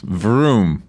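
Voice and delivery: drawn-out engine vroom; race car zooming past. Shown as a demonstration. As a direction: stretch it like a car passing. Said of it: "three O's".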